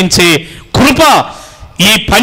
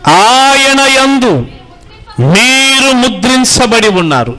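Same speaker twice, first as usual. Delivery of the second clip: slow, high, drawn-out verse reading; scripture reading; 5 semitones higher, slower than usual. Real, not acted. Preacher reads the Ephesians verse to the congregation, slow scripture reading. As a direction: intone the verse slowly on a raised, sustained pitch.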